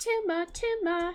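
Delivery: cute-sounding voice. Saying one of the last two words, in a cute voice. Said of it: "saying tumor in a cute voice".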